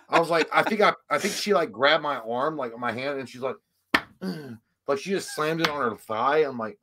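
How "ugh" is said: soft mock moan; imitated moan. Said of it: "she's making all these noises".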